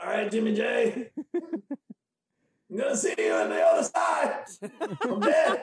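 high-pitched, laughing drunk cartoon voice; drunk Speedy Gonzalez. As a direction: squeal it like a tipsy cartoon mouse mixed with Zeke. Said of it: "You sound like a mixture between".

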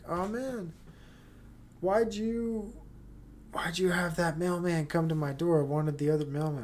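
high-pitched mock whine of a fussy buyer; whiny upset customer. Mimicking the eBay buyer who complained about the mailman, in a high mock whine. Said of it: "the person was basically upset".

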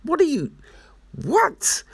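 witch voice. Retold or imitated. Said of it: "And the witch be like".

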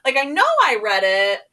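high-pitched, loud put-on protest; squeaky-high imitation of being unsure; mock vague reply. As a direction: act out a hazy answer way up high. Acting out her vague reply.

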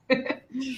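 quick high nervous giggle; a tense, uneasy little laugh. Real, not acted. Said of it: "é riso nervoso".

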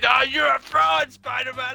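mock Harry rant. Acting Harry wrecking his room.

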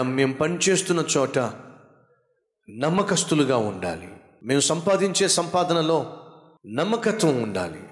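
earnest prayer. Acted. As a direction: pray it from the heart, drawing out key words. Closing prayer to God. (తండ్రిని వేడుకునే గంభీరమైన ప్రార్థన)

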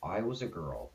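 put-on low, soft, solemn reading of a kids' song; deadpan, grave recitation, quietly measured; serious voice. Shown as a demonstration. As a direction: read it gravely, like solemn drama. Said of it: "do that in a serious voice".

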